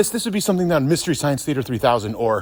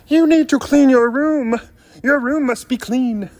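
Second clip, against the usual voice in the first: much higher, strained mocking impression; slow, high-pitched nagging lecture; Jordan Peterson; 10 semitones higher, 4 dB louder than usual. A podcaster mocking a guru's advice to his followers, high-pitched impression. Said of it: "people that listen to Jordan Peterson".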